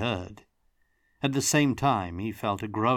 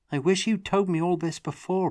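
reproachful; 11 semitones higher, 4 dB louder than usual. A narrator's reading. Tomas reproaching Brody.

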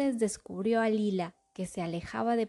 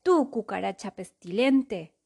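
satisfied; 5 dB louder than usual. Acted. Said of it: "soltó por fin muy satisfecho".

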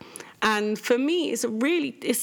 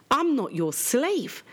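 slow, higher-pitched mimicked defiance; defiant retort; 7 semitones higher, slower than usual. Mum quotes her daughter's cheek to dad, slow mock defiance. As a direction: imitate a cheeky child, drawing out each word.

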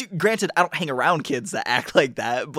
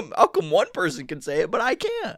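petulant fake complaint; wicked stepmother; 2 semitones higher, 4 dB louder than usual. Playing whiny racist.

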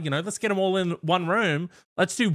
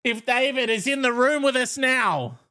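seance medium; 10 semitones higher than usual. Pretend. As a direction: summon the spirit like a medium. Seance, calling a spirit.

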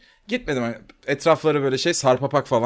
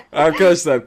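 laughing; 2 semitones higher, 5 dB louder than usual. Real, not acted. Laughing before his anecdote.

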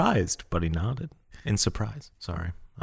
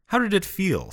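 ragged voice; 11 semitones higher than usual. Acted. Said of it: "his voice ragged".

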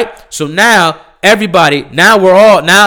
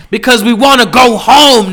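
exasperated; 5 semitones higher than usual. Real, not acted. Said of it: "rising exasperation".

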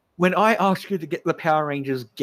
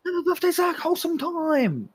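mock gushing cheer; 13 semitones higher than usual. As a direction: gush like a cheesy kids' show. Joining the surprise cheer.

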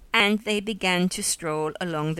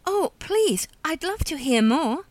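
much higher, keen to hear more; eager reassurance; 8 semitones higher than usual. A narrator's reading. Melanie asks her companion to go on, high-pitched reassurance. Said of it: "Melanie assured her".

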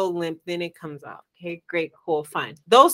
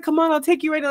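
higher-pitched, eager to help; sweet, caring guy; 6 semitones higher, much faster than usual. Retold or imitated. Guy offering her a ride, sweet and caring. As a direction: coax her along sweetly. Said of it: "very caring and super sweet".

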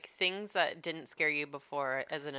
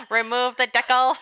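laughing; 7 semitones higher, 9 dB louder than usual. Acted. Joking commands while laughing.

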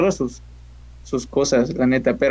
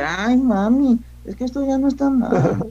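put-on much higher, sing-song northern Mexican accent; 9 semitones higher, slower than usual. Imitating how northerners sound to him, high sing-song northern accent. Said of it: "oírlos a los de allá arriba del norte".

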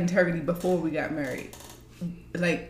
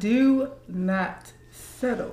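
slow emphatic; 3 semitones higher, much slower than usual. Shown as a demonstration. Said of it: "Say it, say it one more time".

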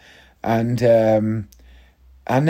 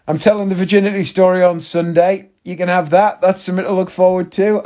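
giddy; 6 semitones higher than usual. Real, not acted. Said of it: "I'm in such a giddy mood today".

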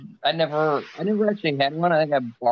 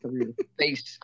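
covered microphone, muffled; muffled mic; 5 dB quieter than usual. Real, not acted. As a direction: hand over the mic. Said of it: "you always cover the mic".

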